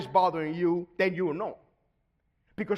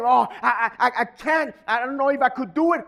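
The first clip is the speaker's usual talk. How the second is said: acted self-doubt; 3 semitones higher, 4 dB louder than usual. Acts out a self-doubting believer.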